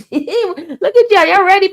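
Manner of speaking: laughing it out, high and slow. Real, not acted. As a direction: laugh through the words at the chat. Laughing at chat's reaction.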